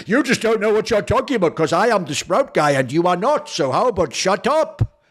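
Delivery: mock someone getting mad, slowing into the final words. Host mimicking the Sprout guy telling him to shut up, mock mad. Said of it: "He's just basically getting mad and just going".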